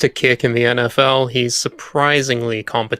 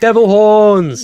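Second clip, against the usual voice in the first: mock rocker voice; 9 semitones higher, 6 dB louder, much slower than usual. Naming the gesture in a voice.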